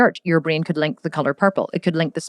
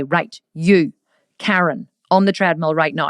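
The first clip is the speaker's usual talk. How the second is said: calling out. Retold or imitated. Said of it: "I could say".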